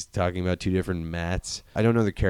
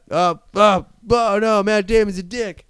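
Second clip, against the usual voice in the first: much higher, loud shocked cry; shocked outcry; 11 semitones higher, 6 dB louder than usual. Retold or imitated. McConaughey realizing the betrayal, high shocked yelp.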